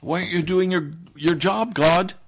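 rising into a loud rebuke on God; chastising God. Acted. Thirsty people rebuking God, mock angry scolding. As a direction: scold like an impatient boss. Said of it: "So they'll chastise him".

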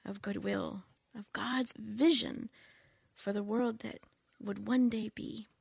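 radio evangelist voice. Shown as a demonstration. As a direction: preach it like a gentle radio evangelist. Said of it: "I'm gonna put my radio evangelist voice on".

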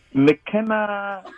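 बनावटी ब्रिटिश लहजा; attempted British accent. Shown as a demonstration. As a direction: try a clumsy British accent on the name. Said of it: "I could try a British accent".

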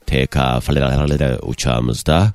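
low, slow pilot cabin announcement; deep, unhurried captain over the intercom; airline captain announcement. Pretend. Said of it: "bir uçak kaptan anonsu geçer misin". (pilot anonsu, alçak ve yavaş)

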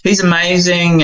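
put-on a proud eight-year-old boasting about his dream dog; eager young boy. Boy tells his grown self about Chester, high eager child voice. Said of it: "And he goes".

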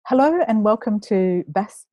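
giggly restart. Real, not acted. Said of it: "I've got the giggles now".

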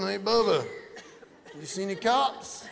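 rowdy landscapers egging each other on; redneck landscapers. Acted. Renegade landscapers shouting to Bubba, a rowdy high holler. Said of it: "renegade landscapers driving around going".

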